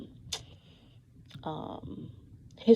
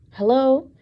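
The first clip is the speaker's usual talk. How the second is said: emphatic hello; 6 semitones higher, 10 dB louder than usual. Real, not acted. Calling out to the audience.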